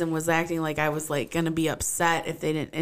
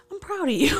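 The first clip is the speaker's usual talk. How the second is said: laughing quote; 13 semitones higher, 5 dB louder, faster than usual. Retold or imitated. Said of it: "she was like".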